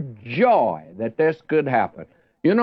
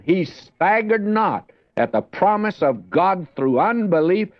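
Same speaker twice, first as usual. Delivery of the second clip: higher-pitched, measured Bible reading aloud; scripture reading; 3 semitones higher than usual. Real, not acted. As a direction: proclaim the verses phrase by phrase, pitch lifted.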